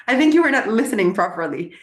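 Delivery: high, exasperated mock outrage; mock indignation. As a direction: play your past self offended he wasn't listening. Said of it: "I was like".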